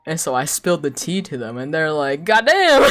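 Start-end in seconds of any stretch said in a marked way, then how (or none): 2.2-2.9 laughing exclamation. Retold or imitated. Coworkers react to tea.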